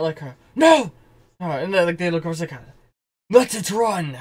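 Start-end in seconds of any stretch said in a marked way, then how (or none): 0.5-0.9 loud, high cry of alarm; called-out shout. Acted. Game master as Hans calling out to the others, loud shout. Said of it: "Hans calls out". 3.3-4.2 loud, stretched-out shout; called-out order. Acted. Game master as Hans halting the shutdown, commanding shout. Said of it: "Hans calls out".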